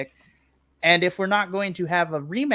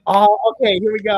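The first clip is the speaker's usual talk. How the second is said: excited; 7 dB louder, faster than usual. Retold or imitated. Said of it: "I was just like".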